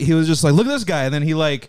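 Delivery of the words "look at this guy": drill sergeant. Retold or imitated. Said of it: "drill sergeant looking dude up front".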